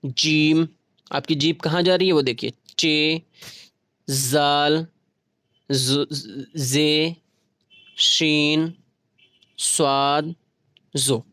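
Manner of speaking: जीम, चे, जाल spaced, each placed on the palate; one letter at a time with a pause after each; palate letters drill. Shown as a demonstration. Teacher leading students through the palate letters, paced drill. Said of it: "वहीं खुनकी देख लें".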